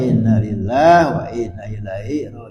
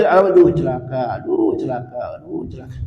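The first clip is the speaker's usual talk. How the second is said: meniru ratapan. Retold or imitated. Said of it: "teriak-teriak, al-wail".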